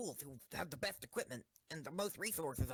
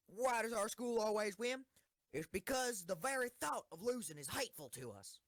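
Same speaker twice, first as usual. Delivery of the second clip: commander addressing the troops, firm and declaiming; rally the team like a general before battle; rousing speech. Acted.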